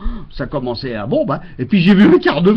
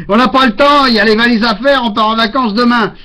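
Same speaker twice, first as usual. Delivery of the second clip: wife's voice; 5 semitones higher, 4 dB louder than usual. Retold or imitated. Wife voiced in a story.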